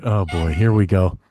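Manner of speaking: low, slow resigned sigh of words. Retold or imitated. Comic bracing himself for the crowd, low and resigned. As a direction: say it like bracing for doom. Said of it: "And I'm like".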